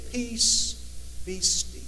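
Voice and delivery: calm command. Acted. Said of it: "he raised his hands".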